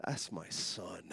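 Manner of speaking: soft, slow, low rebuke; quiet voice of God. Retold or imitated. God gently rebukes the preacher, soft and slow. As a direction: say it gently and slowly, as God correcting. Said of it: "He says".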